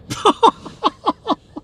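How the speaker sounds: high, loud burst of laughter; real laughter. Real, not acted. Cracking up at the littering joke, real high laughter.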